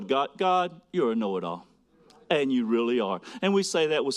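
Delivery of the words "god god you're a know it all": lovingly lowered praise to God; gracious. Shown as a demonstration. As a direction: say it with reverent gratitude. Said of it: "in a very gracious way".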